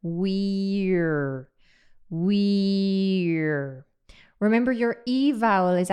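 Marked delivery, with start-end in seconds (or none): 0.0-1.5 "weir" stretched long from E into R; slow sustained "weir"; drawn-out vowel glide. Shown as a demonstration. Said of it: "you're going to say the word weir". 2.1-3.9 "weir" stretched long from E into R; slow sustained "weir"; drawn-out vowel glide. Shown as a demonstration. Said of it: "you're going to say the word weir".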